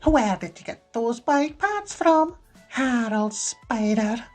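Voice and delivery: high, loud Glaswegian scolding, slowing on the name; snapping mother. A narrator's reading. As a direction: interrogate a son sharply. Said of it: "she snapped".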